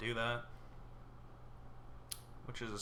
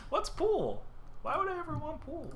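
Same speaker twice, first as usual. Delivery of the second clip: mock innocence. Real, not acted. Mocking fake indifference.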